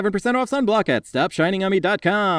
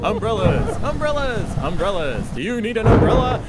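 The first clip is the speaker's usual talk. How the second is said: pushy ad voice; 4 semitones higher than usual. Acted. Pop-up ad hawking umbrellas.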